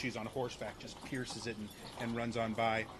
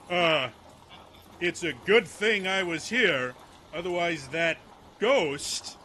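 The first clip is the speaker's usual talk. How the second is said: higher, louder, slow stagy voice; blustering group leader; 5 semitones higher, 10 dB louder, slower than usual. Acted. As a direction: play a frightened leader recovering with drawn-out bravado. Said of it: "he sees who it is, is like".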